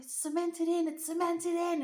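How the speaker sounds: high, loud imitation of dad yelling; screaming over wind. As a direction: yell it over howling wind, insistent. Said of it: "he's screaming at me 'cause the wind is howling".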